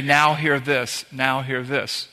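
slow, drawn-out ship's call, lightly done; a hint of a Navy loudspeaker; mock naval announcement. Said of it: "if you were in the Navy".

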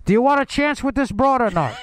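comic attempt at an indoor voice; inside voice. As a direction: pretend to rein in the bluster. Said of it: "oh, say inside voice".

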